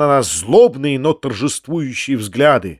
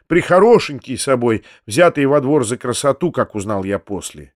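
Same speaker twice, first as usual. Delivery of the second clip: usual speaking voice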